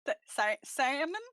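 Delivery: put-on unsure rising try at Turnip's accent; Turnip's accent attempt. Player practising the safe word, attempting Turnip's accent. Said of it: "trying that accent".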